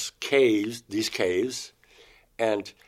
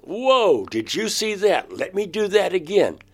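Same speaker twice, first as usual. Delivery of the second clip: retold amazement, much higher; amazed; 10 semitones higher, 3 dB louder than usual. David after touching the baby, amazed and eager. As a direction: marvel and ask to try once more.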